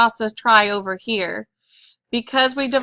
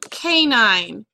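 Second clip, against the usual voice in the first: slow dictation; 2 semitones lower than usual. Shown as a demonstration. Teacher dictates spelling word.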